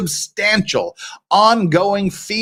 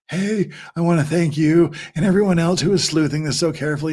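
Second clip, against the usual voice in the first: lightly put-on ASMR voice; a hint of an imitated ASMR read; Megan's ASMR voice. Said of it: "do the Megan A S M R voice".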